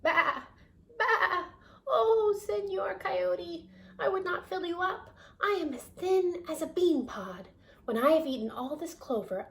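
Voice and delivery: high bleating lamb voice. Acted. Lamb pleading with the coyote in high bleats. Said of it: "Boragita bleated".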